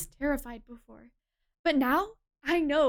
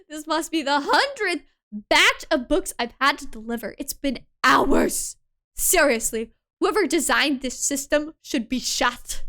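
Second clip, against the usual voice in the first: put-on loud, exasperated delivery boy; character voice; 7 dB louder than usual. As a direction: grumble it out loud, fed up. Character voice in visual novel.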